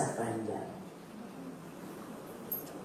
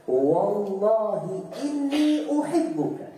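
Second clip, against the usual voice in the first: tender declaration; 5 semitones higher, much slower than usual. Retold or imitated. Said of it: "sambil mengatakan".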